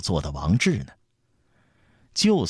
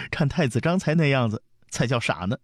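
put-on giggle, then tease in a high girlish voice; high-pitched teasing through a laugh; 8 semitones higher than usual. A narrator's reading. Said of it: "还是笑道". (笑着回嘴)

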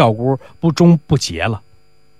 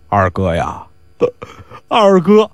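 哭腔喊二哥; slower than usual. Acted. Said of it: "哇哇哇开始痛哭了".

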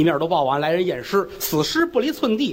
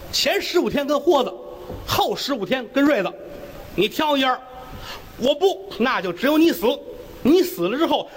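a lightly voiced judge, a bit higher, laying out the verdict; mildly raised official tone, deliberate; magistrate passing sentence; 5 semitones higher than usual. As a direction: hand down the ruling like a court official. Official pronouncing judgment in court.

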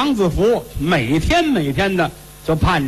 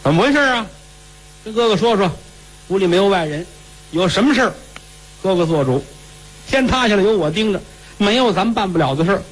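confident elder cousin; 5 semitones higher than usual. Acted. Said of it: "您来了，哥哥".

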